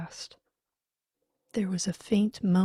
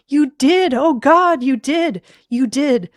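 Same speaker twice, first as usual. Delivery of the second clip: high, loud anguished accusation; distraught shouting; uncontrollable grief; 7 semitones higher, 13 dB louder than usual. Acted. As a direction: wail the accusation through grief. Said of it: "His grief was uncontrollable".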